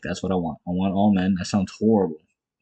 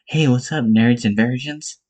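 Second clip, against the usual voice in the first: put-on Irish accent; 3 semitones higher than usual. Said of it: "that Ian Garry accent".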